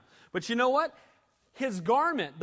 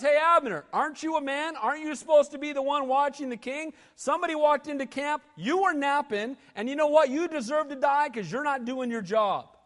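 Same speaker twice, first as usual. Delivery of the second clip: higher, raised voice taking him to task; bold rebuke; 7 semitones higher than usual. Retold or imitated. David rebuking Abner for failing to guard the king, a raised bold scolding. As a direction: scold him boldly for sleeping on duty. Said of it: "David's pretty bold".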